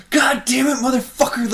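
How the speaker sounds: high, loud gamer rage yell; raging scream. Retold or imitated. Player raging at a game, screaming high and loud. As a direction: scream it at the screen. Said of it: "I was just, like, screaming".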